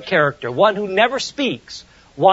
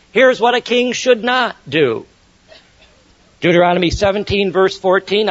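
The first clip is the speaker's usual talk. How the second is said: ordinary delivery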